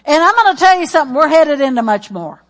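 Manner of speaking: loud, insistent preaching; rising preacher cadence. Real, not acted. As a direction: drive it home to the church. Preaching at full force.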